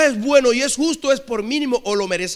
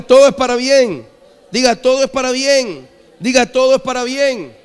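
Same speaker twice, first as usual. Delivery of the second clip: loud preacher's call to repeat; insistent, full-force sermon refrain; rallying proclamation; 3 semitones higher, 7 dB louder than usual. Real, not acted. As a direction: belt it out for the congregation to echo. Preacher leads congregation in repeating refrain.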